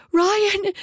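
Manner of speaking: high, loud scream of the name. A narrator's reading. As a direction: shriek "Ryan!" in terror. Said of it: "Kara screamed through an opening".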